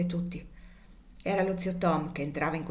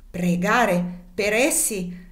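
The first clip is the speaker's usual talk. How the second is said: slow, louder disbelief; incredulous exclamation; 3 semitones higher, 5 dB louder, much slower than usual. Acted. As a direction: drag out the outrage, louder. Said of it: "esclamò la zia Clo". (esclamazione incredula, lenta e più forte)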